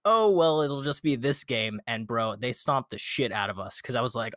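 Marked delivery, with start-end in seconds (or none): 0.1-1.8 high, louder carefree oh well; breezy self-quote. Retold or imitated. Telling co-host his carefree reaction, higher and louder. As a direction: shrug it off brightly.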